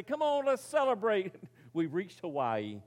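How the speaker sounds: playful imitated whoop of relief; mock celebration. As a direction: cheer like castaways who just found paradise. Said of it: "throw open the bag and say".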